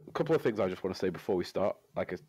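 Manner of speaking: stuffy nose from a cold; nose fully blocked, sick voice. Real, not acted. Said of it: "got a cold, can't breathe through my nose".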